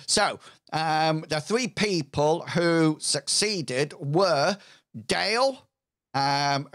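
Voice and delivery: youths' spokesman. Acted.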